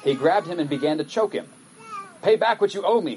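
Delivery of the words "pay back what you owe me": high, loud furious demand; angry demand. A narrator's reading. Servant throttling his fellow servant, loud and angry. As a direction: bark the debt back at him. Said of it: "he demanded".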